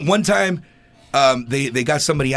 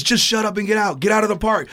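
high, exasperated imitation; fed-up umpire; 6 semitones higher than usual. Umpire dismissing an arguing player, mock exasperated order. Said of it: "ump was already sick of it".

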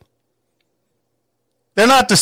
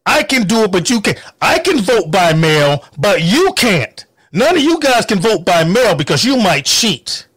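mock quote. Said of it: "the people that say".

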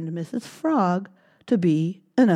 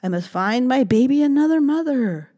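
mother mouse; 7 semitones higher, 5 dB louder, faster than usual. Acted. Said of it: "said Mother Mouse".

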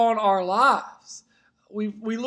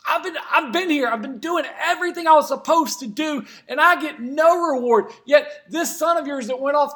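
angry complaint; 3 semitones higher than usual. Retold or imitated. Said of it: "he gets angry".

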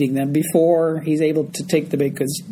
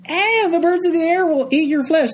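mock dramatic reading; 8 semitones higher than usual. Shown as a demonstration. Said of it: "as if that's not enough".

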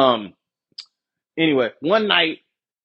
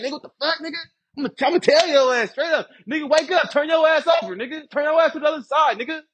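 higher-pitched mock griping; retold indignant rant; 5 semitones higher, faster than usual. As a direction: imitate a fed-up complainer, pitched up. Acts out cellmate's angry rant.

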